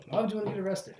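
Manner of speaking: high character voice at speaking volume; puzzled character, fuller. Acted. Second take of same line.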